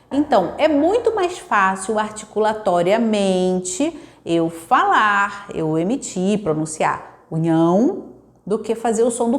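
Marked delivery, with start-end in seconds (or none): none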